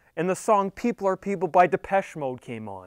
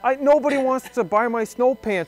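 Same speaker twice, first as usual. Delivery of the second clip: higher, whiny mock complaint from the snow-pants guy; pissed-off seller; 6 semitones higher than usual. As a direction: play the annoyed seller, pitched up and pushy. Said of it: "He gets a little pissed off".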